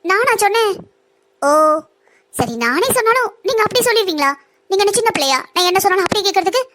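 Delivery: mocking her rival for being childlike; taunting mock surprise. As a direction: play innocent, then scoff at her. Villain mocks sister-in-law's gullibility.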